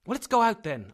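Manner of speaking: loud, high burst of eagerness; sudden impatient shout; eager cry. A narrator's reading. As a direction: cry out, springing up. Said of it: "I cried, suddenly getting up".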